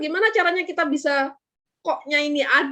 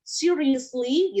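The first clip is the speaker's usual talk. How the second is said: "Seriously" said as a question; questioning intonation; much slower than usual. Shown as a demonstration. Teacher models "Seriously" for students, questioning intonation. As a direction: ask "Seriously" with questioning tune. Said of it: "intonasinya karena dia berupa kalimat tanya".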